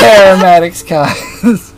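"Charismatic Skies" said slowly, laughing, rising at the end; slow laughing redo. Real, not acted. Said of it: "I peeked the mic on that one".

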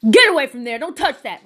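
imitating a sharp telling-off; mean snapping order. Store worker scolding someone else's kids, mock mean snap. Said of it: "Like, mean as shit".

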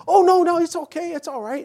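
high, loud, dismissive reassurance; breezy coworker. Retold or imitated. Mark insists the dog is fine, high and loud. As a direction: laugh off the danger like an overconfident guest. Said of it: "he's like".

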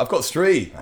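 laughing sniper reply. Pretend.

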